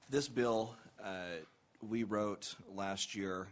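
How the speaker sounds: hoarse from a cold; rough, under-the-weather voice; gravelly voice. Real, not acted. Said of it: "if I sound a little gravelly".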